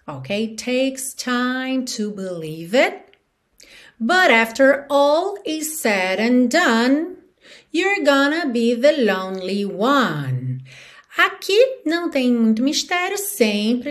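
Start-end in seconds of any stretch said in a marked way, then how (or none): 0.6-3.0 slow lyric with stretched words; song rhythm. Shown as a demonstration. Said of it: "te dando no ritmo da música". 4.0-10.6 slow, drawn-out lyric; song rhythm. Shown as a demonstration. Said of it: "te dando no ritmo da música".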